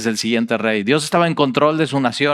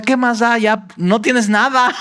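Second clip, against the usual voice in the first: blind man's resolve; 10 semitones higher than usual. Retold or imitated. Voicing blind man's reasoning.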